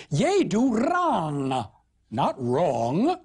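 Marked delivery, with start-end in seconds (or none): 0.1-1.7 very slow, broad northern shepherd; Northern Middle English. Acted. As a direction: scold in old Yorkshire English. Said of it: "Good Northern speech here".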